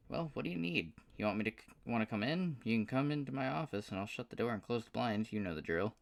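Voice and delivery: high, excited southern drawl; a delighted good-old-boy southern twang. Acted. Paul thrilled to hear from Aston, southern drawl. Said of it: "with a surprisingly thick southern drawl".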